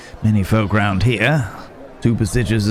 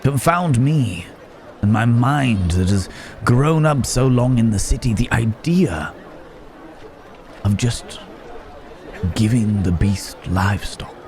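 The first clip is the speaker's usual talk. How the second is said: amazed realisation; 3 semitones higher than usual. Acted. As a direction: marvel at your own oversight. Sudden realisation of a solution.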